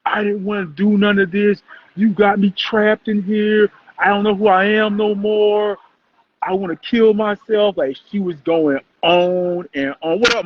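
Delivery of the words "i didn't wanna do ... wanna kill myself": mock crying, held on a high note; imitated bawling. Podcaster retelling the girl's bawling plea, mock tearful. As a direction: retell her desperate plea in a raised, drawn voice. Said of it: "bawling, crying".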